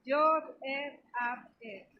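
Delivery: Yod, He, Av, He spelled out slowly letter by letter; Hebrew letter names. Shown as a demonstration. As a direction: sound out Yod, He, Av, He like a teacher. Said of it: "que se pronuncian".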